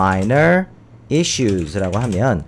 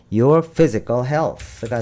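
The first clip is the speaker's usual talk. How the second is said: slow reading; much slower than usual. Shown as a demonstration. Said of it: "reading the example sentence slowly".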